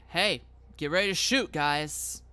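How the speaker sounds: loud, quick warning to the squad; rally your fellow officers urgently; alarmed cop shout. Acted. Startled cop alerting the others.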